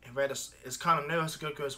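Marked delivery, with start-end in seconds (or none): none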